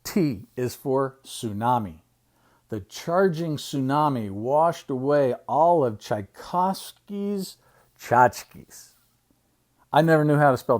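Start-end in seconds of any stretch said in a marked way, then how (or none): 0.0-8.9 measured picture-book reading; reading to children. Acted. Uncle reading an alphabet book to children, storytime reading. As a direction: read it out slowly for little listeners.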